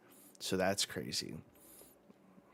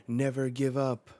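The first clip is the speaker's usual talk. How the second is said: raised, louder rallying shout; rallying cry; 5 semitones higher, 6 dB louder than usual. Acted. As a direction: call it out to rally fighters.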